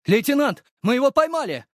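very high, loud triumphant bellow; yelling at the top of lungs. A narrator's reading. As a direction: shout it at full voice. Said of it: "заорали во всё горло".

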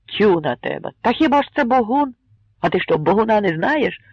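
scoffing. Acted. Crowd member scoffs.

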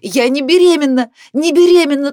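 high, loud denial shouted twice; angry shout. A narrator's reading. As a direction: shout it again, furious. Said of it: "она гневно прокричала".

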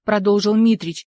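ordinary delivery, nothing marked

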